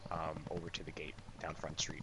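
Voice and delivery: hushed whisper, sneaking off. Acted. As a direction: breathe it out unseen. Sneaking away quietly.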